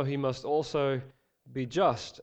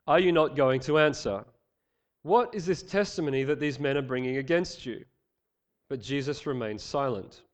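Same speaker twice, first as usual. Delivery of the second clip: projected, measured Bible reading; scripture reading; 4 dB louder than usual. A narrator's reading. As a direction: read the passage out clearly to a congregation, phrase by phrase. Reads scripture to the congregation.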